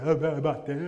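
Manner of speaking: stammered, blubbering child imitation; mock crying child. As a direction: act out a little one's tearful answer.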